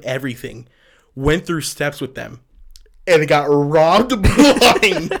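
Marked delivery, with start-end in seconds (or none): 3.1-5.1 slowing and rising into a laughing squeal; bursting into laughter. Real, not acted. Telling co-host the ex got robbed, breaking into laughter. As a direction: lose it on the last words. Cracking up at the story's end.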